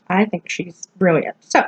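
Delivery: holding back hiccups; talking through hiccups; suppressing hiccups. Real, not acted. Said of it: "excuse me, hiccups".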